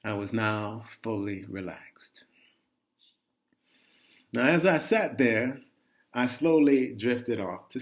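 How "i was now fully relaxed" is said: soft whispered relief. Real, not acted. Man on the toilet, finally calm, whispering. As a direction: breathe it out in a whisper. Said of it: "calm after the panic".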